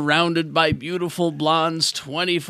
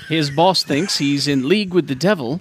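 lightly put-on British newsreader accent; BBC presenter; 2 semitones lower than usual. Host retelling the show's story, mock BBC British presenter. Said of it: "as a B B C presenter then".

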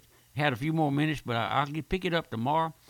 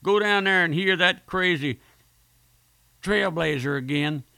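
raised, louder mock defiance of a scoffer; boastful scoffer; 4 semitones higher, 5 dB louder than usual. Preacher mimics a boaster refusing to hear him, loud mock defiance. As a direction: mimic a proud man swearing he won't go back. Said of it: "I've heard people make a boast".

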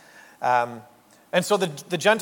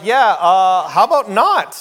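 laughing mock refusal; 3 semitones higher, 7 dB louder, slower than usual. Churchgoer refusing the usher's check, laughing loudly. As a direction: turn it down through laughter. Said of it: "And you're like".

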